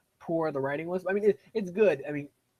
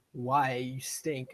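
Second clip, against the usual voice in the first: a disdainful viewer saying you stink; mock viewer jeer; much slower than usual. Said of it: "you're like".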